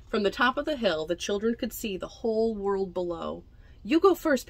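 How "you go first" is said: put-on teasing kid. Henry daring Pedro.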